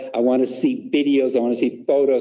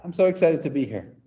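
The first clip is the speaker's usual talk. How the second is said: flat; 4 semitones higher than usual. Shown as a demonstration. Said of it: "Now say it flat".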